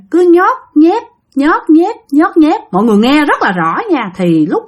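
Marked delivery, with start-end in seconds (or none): 0.1-2.6 higher-pitched squelchy sound effect; imitated squelching. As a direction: mimic a wet squelch, word by word. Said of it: "nó phát ra cái tiếng vậy". (bắt chước tiếng nhót nhép)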